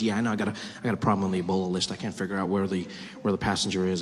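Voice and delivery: a hint of a low, hurried safety official; lightly voiced worried official. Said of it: "He goes".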